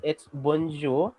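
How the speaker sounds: bonjour said slowly; slow model pronunciation. Shown as a demonstration. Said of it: "if you're going to greet someone".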